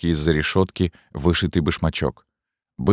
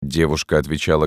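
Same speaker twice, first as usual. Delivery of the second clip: usual speaking voice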